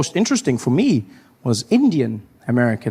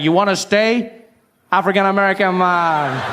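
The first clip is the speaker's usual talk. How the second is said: insistent voice; 5 semitones higher than usual. Retold or imitated. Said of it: "He's like".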